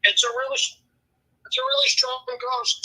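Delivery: high, slowed spooky moan; spooky ghost voice. Pretend. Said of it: "then I'm talking to your ghost".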